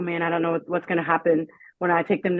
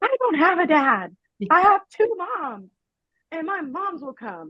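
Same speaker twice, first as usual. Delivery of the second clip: mock excited little boy's cry, very high, swooping; 10 semitones higher than usual. A parent retells their son answering a boy at daycare; imitating a child screaming. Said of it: "he screamed to his loudest voice".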